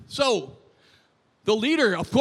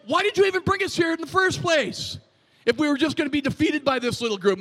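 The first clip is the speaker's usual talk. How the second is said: high, complaining challenge, acted out; Joshua; 5 semitones higher than usual. Preacher voices Joshua questioning God, whining. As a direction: imitate an indignant whine at God. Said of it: "he started questioning God".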